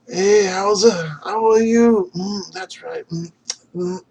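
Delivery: high, loud hammed-up Canadian voice; playful Canadian stereotype, high and loud; mock Canadian accent. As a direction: lay on a jokey Canadian accent. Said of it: "we have Canadians that say".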